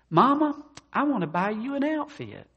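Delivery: high, hammed-up son calling to his mama; acted eager offer. Son offers his mother a birthday gift, acted eagerness.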